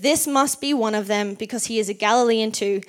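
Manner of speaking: ordinary talk, nothing marked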